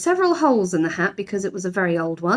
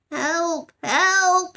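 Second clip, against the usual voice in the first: high bear's cry for help; small bear's high shouts; Paddington shouting; 10 semitones higher than usual. A narrator's reading. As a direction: yell from the bath. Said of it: "shouted Paddington".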